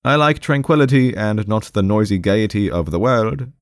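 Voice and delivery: high-pitched, mildly exasperated patient; somewhat irritated, puzzled. Acted. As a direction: press your point against an obstinate listener. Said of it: "somewhat irritated and puzzled".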